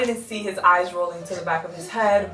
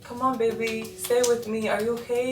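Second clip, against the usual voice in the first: retold urgent coaxing; 5 semitones higher than usual. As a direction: coax him gently but urgently, a touch higher. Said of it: "Anthony's like".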